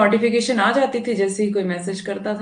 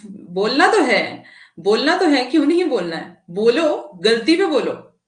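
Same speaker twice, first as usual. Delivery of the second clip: firm rebuke; 3 semitones higher, 5 dB louder than usual. Real, not acted. Teacher rebuking class for quarrel.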